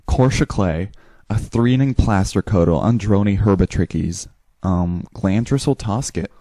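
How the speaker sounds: made-up English-sounding gibberish; fake English. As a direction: babble nonsense that sounds English. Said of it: "I start with English".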